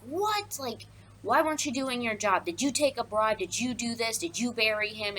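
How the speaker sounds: high incredulous start, then rattled-off questions; lightly acted interrogation, opening on a high yelp; mock accusing. Creon grills the guard about the burial, mock accusing. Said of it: "starts accusing the guard".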